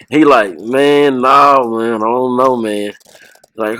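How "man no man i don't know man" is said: drawn-out, lightly groggy imitation, sinking; Terry Funk. Wrestler woken by prank callers, imitated groggy reluctance. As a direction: imitate someone half woken, fading at the end. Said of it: "didn't seem like he was in his mind".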